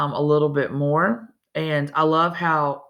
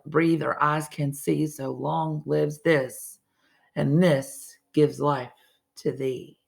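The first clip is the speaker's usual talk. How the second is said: formal title announced before the poem; measured recital voice; poem reading; 2 semitones higher than usual. Acted. Teacher reads the sonnet aloud.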